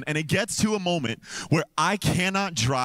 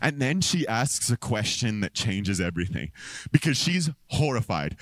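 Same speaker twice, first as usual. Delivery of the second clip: ordinary talk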